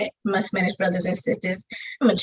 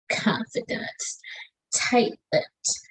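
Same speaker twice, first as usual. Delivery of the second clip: slow whisper inside the poem; whispered line; 6 dB quieter, much slower than usual. Acted. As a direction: drop to a hushed whisper, keep it tight. Poem line about keeping secrets.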